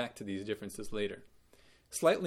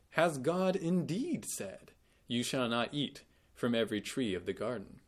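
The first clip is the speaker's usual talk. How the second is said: mock incredulous serpent. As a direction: lightly voice the serpent's disbelief. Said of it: "or maybe incredulous".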